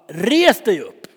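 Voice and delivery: loud, slow command to rise; commanding call. Retold or imitated. Peter commands the lame man to stand, loud and slow. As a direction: order him up with authority. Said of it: "och så bara".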